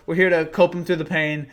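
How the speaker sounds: chuckling through the words; can't hold back the laugh; giggling while offering comfort. Real, not acted. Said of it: "I'm not trying to laugh".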